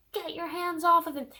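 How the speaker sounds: mad yell. Retold or imitated. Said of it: "She's so mad".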